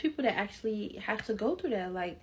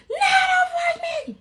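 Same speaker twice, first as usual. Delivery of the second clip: much higher, louder laughing whine; laughing protest; 9 dB louder than usual. Retold or imitated. Pushed by grandma to tell mom, laughing protest. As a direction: beg off through laughter, half crying.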